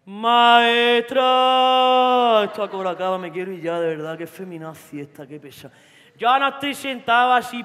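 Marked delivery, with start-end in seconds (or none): 0.0-5.7 whiny Jaén lad. Retold or imitated. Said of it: "El de Jaén".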